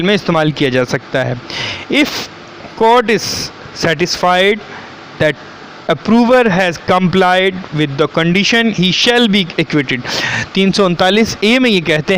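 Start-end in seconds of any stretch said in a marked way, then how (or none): 1.9-10.0 slow, deliberate reading of legal text; statute read-out. Acted. Lecturer reading the law to students, slow read-out. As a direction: read it out slowly, word by word.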